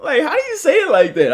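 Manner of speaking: put-on high, teasing kid voice; a student poking fun at the coach's accent; lightly voiced high student; mocking students. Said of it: "my students laugh at how I say that".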